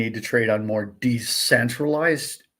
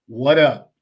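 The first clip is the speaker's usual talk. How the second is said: louder, curt demand; blunt confronting; 7 dB louder than usual. Retold or imitated. Reporter confronting the exchange boss, loud and curt. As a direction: shove the mic in and demand it. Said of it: "get a microphone in that man's face".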